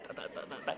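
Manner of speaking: quick rattling "ta-ta-ta" noise; imitated rattling. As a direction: imitate a vehicle bumping over a pothole. Imitates car bumping over a hole.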